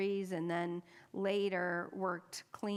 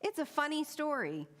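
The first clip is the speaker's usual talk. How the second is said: eager chatty man; 5 semitones higher than usual. Retold or imitated. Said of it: "Bruce says".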